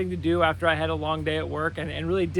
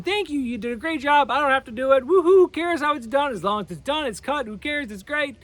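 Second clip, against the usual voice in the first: cheerful thanks; 5 semitones higher than usual. Retold or imitated. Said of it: "Instead of thanking her and saying".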